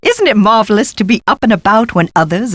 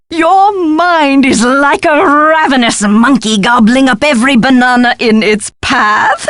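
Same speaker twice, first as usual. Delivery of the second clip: raised pitch, gushing exclamation; theatrical marvelling; 4 semitones higher than usual. Acted. Scholar marvelling at helper's ravenous mind, theatrical. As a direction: marvel grandly, rolling through the words.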